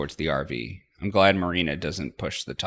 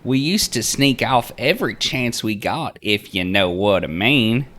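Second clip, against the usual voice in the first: chirpy tour guide Linda; 8 semitones higher, 8 dB louder than usual. Acted. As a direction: sing it out like a cheery Southern aunt.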